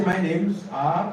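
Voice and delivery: "My names are" drawn out, with a separate ARE; wrong form. Shown as a demonstration. Teacher showing students what not to say, wrong form. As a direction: slowly put ARE after NAMES. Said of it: "Please don't say".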